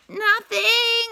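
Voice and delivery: high, loud holler; high loud shouted denial. A narrator's reading. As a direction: yell it out, hiding the pain. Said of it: "Anansi hollered".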